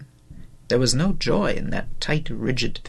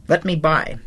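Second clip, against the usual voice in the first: spluttering, voice cracking; 4 semitones higher than usual. Acted. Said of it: "I spluttered, my voice cracked, childish".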